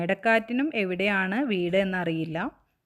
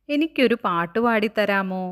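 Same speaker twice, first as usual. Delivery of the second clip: louder, lightly acted childlike asking; childlike request; 5 dB louder than usual. Kite asking the wind for a song, eager. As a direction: ask eagerly for a song, voice raised.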